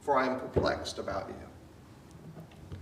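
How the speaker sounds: slow and pained, letting the words hang; sorrowful perplexity. Acted. Paul telling the Galatians he is perplexed, slow and sorrowful. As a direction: sound troubled, almost grieving. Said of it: "tone goes to a unique".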